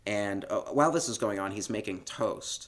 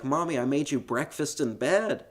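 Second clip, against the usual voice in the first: lightly imitated child, raised pitch; proud little kid; 6 semitones higher than usual. Host as boy serving his mother breakfast, lightly childlike. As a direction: present breakfast as a small boy would. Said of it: "And he's like".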